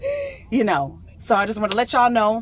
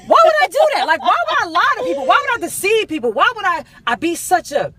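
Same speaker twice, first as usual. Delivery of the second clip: high, loud wail; mock tearful protest; 9 semitones higher, 6 dB louder than usual. Speaker protesting she would never deceive people, mock tearful wail. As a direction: plead it out in hammed-up anguish. Mock anguished questions with heard cry.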